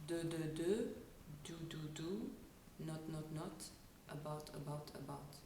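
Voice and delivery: French-accented repetitions, lips and tongue held forward; French accent warm-up. Shown as a demonstration. Coach running her short warm-up for sound placement, French accent. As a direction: drill syllables in a forward French placement, softening as it goes. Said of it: "which goes like this".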